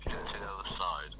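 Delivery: whispered punchline. Real, not acted. Punchline muttered reluctantly.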